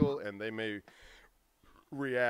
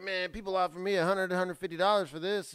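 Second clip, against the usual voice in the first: retold boast; 7 semitones higher than usual. Retelling Andy's boast about necklace.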